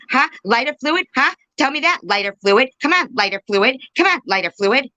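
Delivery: very high, sing-song heckling; pestering parody in a squeaky-high pitch; mock badgering. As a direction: needle them with the nickname, lilting up each time. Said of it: "this is how it would go".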